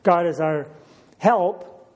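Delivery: help lifted and set apart after a pause; stress on help. Shown as a demonstration. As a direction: lean on the word help, then pause. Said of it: "Three, three little words there, notice them".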